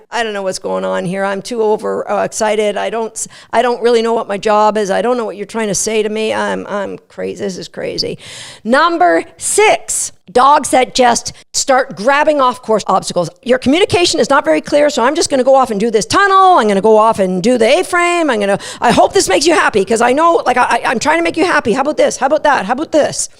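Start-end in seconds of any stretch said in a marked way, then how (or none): 0.1-8.2 frazzled dog. Retold or imitated. Spinning dog voiced, laughing first. 13.4-23.3 eager dog. Retold or imitated. Dog grabbing obstacles voiced.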